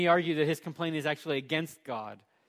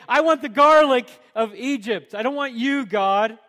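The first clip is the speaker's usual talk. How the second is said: grumbling; 7 semitones higher, 13 dB louder than usual. Retold or imitated. Israelites grumbling against God.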